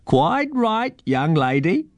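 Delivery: put-on high, quirky old man's voice; old bird-man. A narrator's reading. Eagle in the tree answers the girl, high old-man voice. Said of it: "came the old man's voice".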